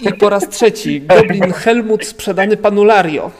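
going once, going twice, sold; auctioneer. Acted. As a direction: bang the hammer and close the sale. GM closes the sale.

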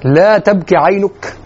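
slow, drawn-out tender recitation; affectionate. Retold or imitated. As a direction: linger on the words with gentle affection. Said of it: "هل تشعر بهذا الود في الكلام". (بودّ وتمهّل)

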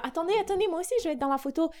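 high, rapid eager call. Retold or imitated. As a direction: hurry to get in the shot. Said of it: "Et puis, j'étais là".

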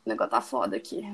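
unvoiced, through a yawn; mid-yawn breathy words. Real, not acted. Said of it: "lacrimejando, sabe? De tanto bocejar".

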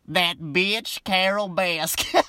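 slow, drawn-out mock Southern accent, rising on Carol; imitating Joe Exotic's Southern twang; a light Southern accent stretched out slowly; Joe's Southern accent. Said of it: "I gotta work on that Joe accent".

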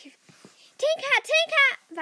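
hissed whisper of her name; a girl whispering to her friend at night; urgent whisper. Acted. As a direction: wake her without waking the house. Secretly waking friend at night.

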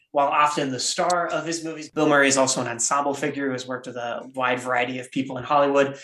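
lightly voiced game show host. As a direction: announce it like a quiz host. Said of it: "I'm gonna put on my game show host voice now".

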